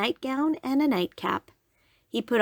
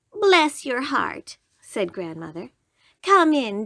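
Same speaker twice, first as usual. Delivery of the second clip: sweet grandmother voice; 3 semitones higher than usual. Acted.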